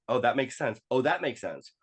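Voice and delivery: growing revelation, re-enacted; dawning realization. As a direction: act out it clicking, pitch rising with each discovery. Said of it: "things are clicking and I'm like".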